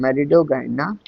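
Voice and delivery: "malign" said as "me-li-do-gai-na"; correct pronunciation. Shown as a demonstration. Teacher giving students the proper name, correctly pronounced. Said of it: "इसका जो शुद्ध नाम है".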